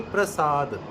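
ਪ੍ਰਸਾਦ as "pra-saad"; joined pr sound. Shown as a demonstration. Teacher answering their own question, ਪ੍ਰਸਾਦ as "prasaad". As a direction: say ਪ੍ਰਸਾਦ with r right after p. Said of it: "ਪੱਪੇ ਦੇ ਪੈਰ 'ਚ ਰਾਰਾ ਹੋਊਗਾ".

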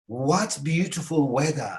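slow admiring exclamation. Shown as a demonstration. Teacher models admiring the weather, exclaimed. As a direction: stretch it out in admiration. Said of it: "Haykırarak söylüyorsunuz".

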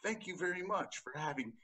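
high, sugary polite voice; overly polite driver. Pretend. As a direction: thank the cop sweetly. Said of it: "Then I'd be like".

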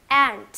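एंट loud with open "a" and released t; model pronunciation. Shown as a demonstration. Teacher reviewing A words, emphatic model pronunciation. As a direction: punch out एंट, open vowel first. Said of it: "focus on the sound of A".

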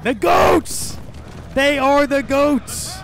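high, loud whooping cheer; excited cheering. Real, not acted. Gamer cheering the goats on screen, whooping loud. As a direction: celebrate like your team just won. Celebrating in game.

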